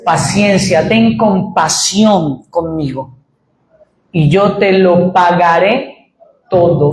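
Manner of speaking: slow humble plea; pleading servant. Retold or imitated. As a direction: beg for mercy, slowly. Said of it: "suplicó, diciendo".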